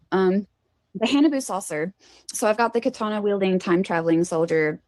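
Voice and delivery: talking while chewing steak; words around a bite of steak. Real, not acted. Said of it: "I'm chewing my steak".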